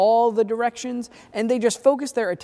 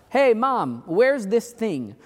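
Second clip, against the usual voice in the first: mild mock shout, higher pitched; retold shout; 5 semitones higher, slower than usual. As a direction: call out to Mom from another room, lightly acted. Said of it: "one of us shout".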